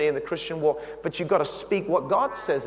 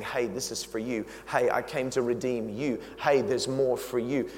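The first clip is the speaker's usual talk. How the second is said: soft gentle plea, much softer; hushed, loving call to the listeners; tender invitation; 5 semitones lower, 4 dB quieter than usual. Acted. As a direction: coax them in softly like a friend. Jesus' tender invitation voiced.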